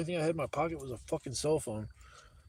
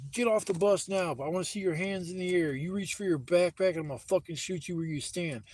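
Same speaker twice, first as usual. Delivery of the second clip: raised mock-shouted police commands, fading toward the end; retold cop barking orders; 4 semitones higher than usual. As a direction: bark it like a cop at gunpoint, then ease off. Cop orders him off the bus.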